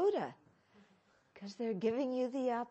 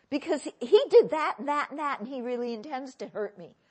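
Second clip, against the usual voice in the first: louder, laughing indignation; mock outraged; 3 semitones higher, 11 dB louder than usual. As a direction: play the angry self. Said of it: "inner angry voice answering".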